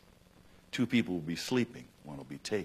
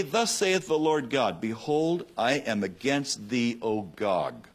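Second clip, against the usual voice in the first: slow, raised proclamation of God's word; scripture proclamation; slower than usual. Acted. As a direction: declare it slowly like a prophet. Quoting God's word in Ezekiel.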